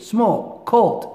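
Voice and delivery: "small" and "cold" each said as one unbroken syllable; no break inside "small" or "cold"; "cold" flows out as one smooth syllable. Shown as a demonstration. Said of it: "بدون تقطيع".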